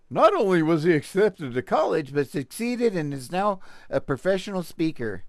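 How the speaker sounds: mock amazed newsreader voice; mock surprise. Mocking the article's surprised tone, mock astonished reading. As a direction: act shocked he succeeded, sarcastically. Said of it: "like, they're surprised".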